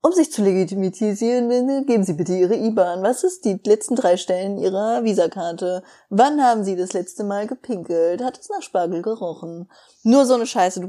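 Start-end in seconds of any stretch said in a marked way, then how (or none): 0.0-9.7 flat robotic monotone. Retold or imitated. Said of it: "Computerstimmen der Welt".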